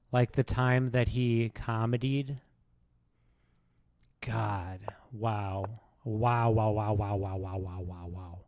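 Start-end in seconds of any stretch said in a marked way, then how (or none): 4.2-8.4 low, soft wows fading away; hushed mock awe. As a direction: repeat it under your breath, sinking to nothing. Mock awe at his comedy.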